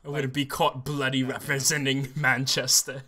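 lightly put-on British accent, half laughing; a jokey hint of a British accent; mock British voice with a laugh; stereotypical British accent. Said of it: "Are y'all okay if I do stereotypical British accent?".

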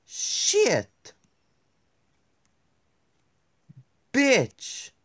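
high, loud yelled curses; panicked shrieks. Real, not acted. Player caught by Granny, panicked high yells. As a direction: shriek each one in panic.

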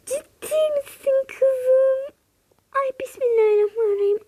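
high, crying-voiced shock; shocked disbelief. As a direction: gasp it out in disbelief. Anne şaşkınlıkla inanamıyor. (şaşkın, ağlamaklı ses)

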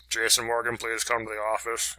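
imitated store PA announcement; mock intercom summons; intercom page. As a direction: page an employee over the speaker.

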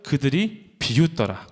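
그들이 leaned on, 비웃더라 drawn out; slow unison scripture reading; slow group reading. Shown as a demonstration. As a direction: read slowly with the congregation, 그들이 stressed. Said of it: "시작".

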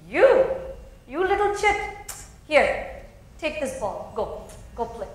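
mocking demon. The demon taunts the boy and tosses him a ball, mocking. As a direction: brush the child off with scorn.

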